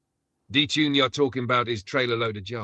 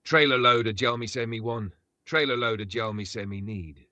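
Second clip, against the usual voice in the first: lightly voiced deep gruff toaster; a hint of gruff dancehall toasting; mild gruff dancehall chant; gruff dancehall artist voice. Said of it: "deep, gruff voice".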